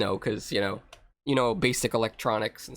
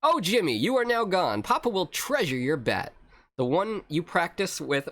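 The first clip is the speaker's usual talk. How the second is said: hammed-up, higher-pitched lament; grieving Papa; 3 semitones higher than usual. Father mourns his dead son Jimmy, melodramatic. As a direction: deliver a theatrical farewell, slowing at the end.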